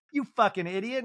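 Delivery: high-pitched retold scolding; mock insult. Crystal really flying at Garcelle, high mock scolding. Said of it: "Crystal's, like, really flying".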